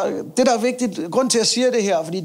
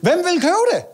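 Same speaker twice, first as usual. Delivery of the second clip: mock incredulous; 11 semitones higher, 3 dB louder than usual. Mocking rhetorical question.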